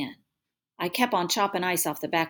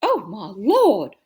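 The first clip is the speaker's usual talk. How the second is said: loud, drawn-out mother's cry of shock; screamed; 2 semitones higher, 7 dB louder, much slower than usual. A narrator's reading. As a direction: cry out in horror, stretching the words. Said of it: "Mama screamed".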